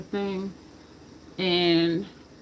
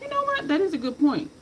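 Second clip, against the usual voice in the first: mock agreement; 9 semitones higher than usual. Mock reaction to winner's answer.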